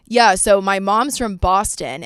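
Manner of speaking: lightly imitated Boston accent. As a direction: put on a hint of Boston, drawn out. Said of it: "kinda clicked on a Boston accent".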